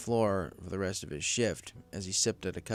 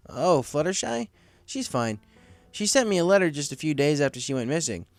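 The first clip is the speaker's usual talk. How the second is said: higher, curious coworker voice; a friendly manager asking what's wrong; higher, concerned friend; Cloud Kicker voice; 4 semitones higher, 3 dB louder than usual. Acted.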